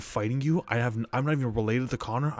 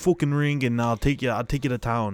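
mock fighter challenge; 3 semitones higher, 5 dB louder than usual. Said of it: "he's like".

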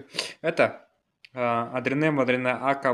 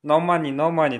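put-on Indian accent; 4 semitones higher, 5 dB louder than usual. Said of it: "скажи вот эту фразу".

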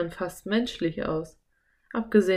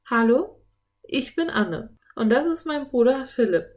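put-on higher, clearly projected girl's greeting; loud, clear voice; 6 semitones higher, 4 dB louder than usual. A narrator's reading. Anne introducing herself to the giant octopus, loud and clear. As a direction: introduce yourself loudly and clearly. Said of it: "mit lauter, deutlicher Stimme".

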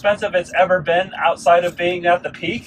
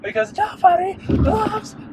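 mock self-pity; 13 semitones higher than usual.

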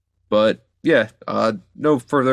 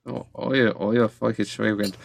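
mock Scottish accent. Host keeping up the bit, mock Scottish accent. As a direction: bluster in a made-up Scottish accent. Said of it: "do the right Scottish accent".

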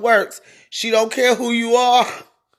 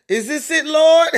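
high, laughing cry to the Lord, louder at the end; mock plea to God; 6 semitones higher, 3 dB louder than usual. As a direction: plead upward through laughter. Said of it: "I wonder what she thought".

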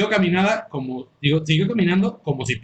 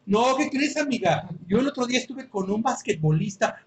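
mock gossip; 3 semitones higher, 5 dB quieter than usual. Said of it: "la conversación así".

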